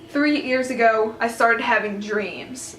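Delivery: drawn-out, measured storytelling; slow retold confession. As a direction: quote his confession slowly, stretching each phrase. Quoting his slow confession.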